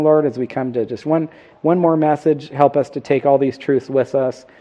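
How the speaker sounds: earnest, steady prayer voice; closing prayer. Acted. Pastor praying for the husbands at the sermon's close, earnest and steady. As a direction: pray humbly for the husbands present.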